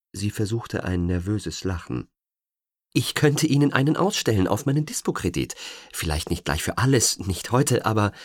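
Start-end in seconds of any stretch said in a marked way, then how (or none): 2.9-8.1 nervous. Acted. Nervous pleading after nervous laugh.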